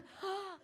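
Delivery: high mock-shocked gasp; sharp gasp. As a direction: gasp as if caught out. Shocked gasp mid-sentence.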